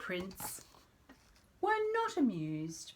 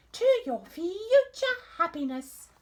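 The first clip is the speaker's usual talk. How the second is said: queen voice; 11 semitones higher, 7 dB louder than usual. Acted.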